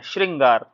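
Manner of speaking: श्रृंगार with a clear री sound, falling; correct pronunciation. Shown as a demonstration. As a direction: say श्रृंगार slowly and carefully, stressing री. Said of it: "री के रूप में इसका उच्चारण करना है". (श्रृंगार में री साफ़ बोलें)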